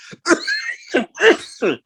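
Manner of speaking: high forced throat clear to mask giggles. Real, not acted. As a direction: fake throat clear hiding a laugh. Covering a laugh.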